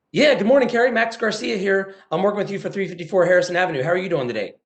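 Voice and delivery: cheerful sales-call hello; upbeat greeting. Retold or imitated. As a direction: greet her like a happy customer. Friendly call to a receptionist.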